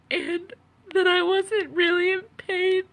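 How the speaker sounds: tearful, voice close to breaking; after crying. Real, not acted. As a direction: speak through fresh tears. Tearful account of being disbelieved.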